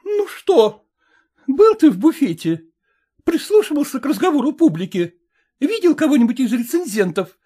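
high, eager woman's questions; vain actress. A narrator's reading. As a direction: actress fishing for praise. Calmed actress asks husband. (высоким голосом, с любопытством)

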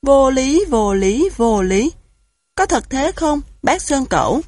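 rapid, loud no-no-no; emphatic disbelief. A narrator's reading. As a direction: shake your head hard and insist it's absurd. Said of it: "Thỏ lắc đầu lia lịa".

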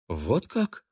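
flustered. A narrator's reading. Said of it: "смешалась Полет".

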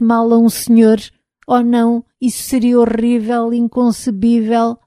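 a robot trembling with fear; frightened robot voice. Acted. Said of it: "a tremer de medo". (robô assustado a tremer de medo)

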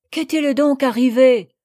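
worried mother asking. A narrator's reading. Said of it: "demanda madame de Rosebourg".

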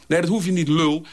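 hoog en luider, nijdig; scheldend. A narrator's reading. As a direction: snauw het nijdig terug. Dolf scheldt Sirius uit. (Dolf scheldt woedend terug)

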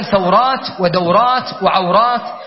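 ثورات ودورات وعورات as thaw-rāt, wa-daw-rāt, wa-ʿaw-rāt; unvowelled middle letter. Shown as a demonstration. Teacher lists majority usage, ثورات ودورات وعورات with aw diphthongs. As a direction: keep each w vowelless in ثورات ودورات وعورات. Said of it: "يسكنونه في الجمع".

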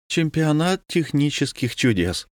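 exclaiming. A narrator's reading. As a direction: marvel aloud at the wonders. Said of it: "воскликнула Василиса".

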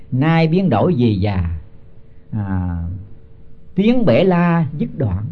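slow, measured chant of the verse; slow scripture chant before explaining it; slow verse recitation. Acted. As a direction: intone each syllable like scripture. Recites verse line slowly.

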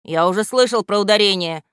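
irritated. Acted. Грамотейка cuts off the statue, irritated. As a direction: brush the news aside. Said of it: "раздражённо сказал Грамотейка".

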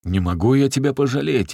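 fake-fierce holler hiding pity; threatening roar. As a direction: shout him down sternly. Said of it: "ещё грознее заорал Захар".

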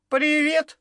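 dismissive hi. A narrator's reading. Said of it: "отмахнулась девочка Сергея".

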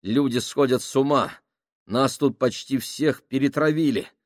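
nervous plea building to a frantic, high, loud cry; panicked pleading. Acted. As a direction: start uneasy, end in near-hysterical panic. Panicking sailor pleads with crew.

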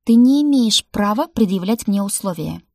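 wife defying husband in fury; angry stamp. A narrator's reading. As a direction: stamp your foot and say it. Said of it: "топнула я ногой".

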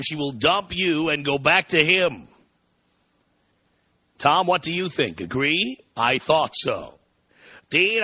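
mildly theatrical scornful reading; lightly hammed-up rant; taunting email read. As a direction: read the listener's lecture to Dean with emphatic swings. Reads listener email theatrically.

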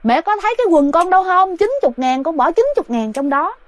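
high pleading calls to mom; dead son's voice calling to his mother; possessed son calling mother. Retold or imitated. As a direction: plead like a lost child. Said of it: "nói".

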